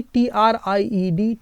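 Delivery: drawn-out spelling for the class; slow spelling. Shown as a demonstration. Teacher spelling a past form slowly for students. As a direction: spell टीआरआईईडी letter by letter, slowly. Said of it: "इसकी past form कैसे बनेगी".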